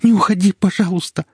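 high, loud frightened begging; terrified plea. Acted. Wife begs husband not to leave her, panicked. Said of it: "Мне стало жутко страшно".

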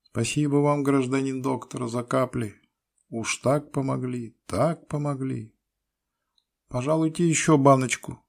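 high, fawning peasant woman's sing-song. A narrator's reading. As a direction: lay the flattery on thick, way up high. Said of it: "запела льстиво".

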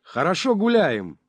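high, loud revelling shout; bawling. A narrator's reading. Сивый cheers on the drunken party, bawling. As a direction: whoop it out over the party. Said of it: "орал Сивый".

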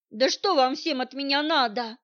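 loud angry bark; snapping in frustration. Acted. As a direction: bark it at them, cornered. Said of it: "рявкнула я".

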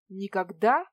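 loud, rising astonished echo. Acted. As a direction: echo her word in disbelief. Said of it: "поразился я".

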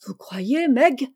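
s'étonner comme d'une idée toute neuve; surprise naïve. A narrator's reading. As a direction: question étonnée qui monte sur Meg. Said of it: "en ouvrant les yeux comme si l'idée ne lui en était jamais venue". (surprise naïve, ton montant)

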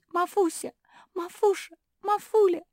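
очень высоко и громко зовут, нарастая; кричите вниз в колодец, всё отчаяннее; кричать в колодец. Acted. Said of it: "начали кричать". (мопсихи зовут упавшую Мафи в колодец, крик нарастает)

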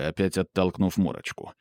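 ordinary delivery

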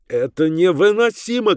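high-pitched exasperated cry; shouting in outrage. A narrator's reading. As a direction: burst out, unable to bear it. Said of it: "кричал он".

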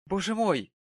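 high, loud cry of surprise; startled lady exclaiming; surprised exclamation. A narrator's reading. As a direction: gasp it out, amazed. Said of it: "воскликнул очень знакомый голос".

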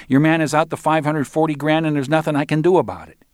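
put-on high-pitched voice of a young dealer; defensive Arnold. Arnold explains the loss to Roland, high defensive voice.

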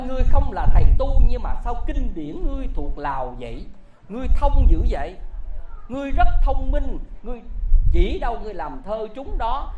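loud, pushing questions; father-in-law shouting at the young man; loud demanding. Acted. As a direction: demand answers loudly.

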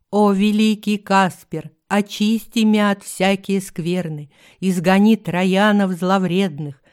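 loud solemn chant to a deity; mock invocation. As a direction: intone it like a shaman.

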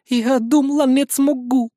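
high, tearful quaver; choking back tears. Acted. Rina tearfully tells the hero she feared failing. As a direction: struggle through the sobs. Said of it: "давясь слезами".

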